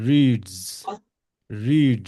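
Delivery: reads ending in a voiced z. Shown as a demonstration. Teacher correcting reads to end in z. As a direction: buzz the final z of reads. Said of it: "not reads, but".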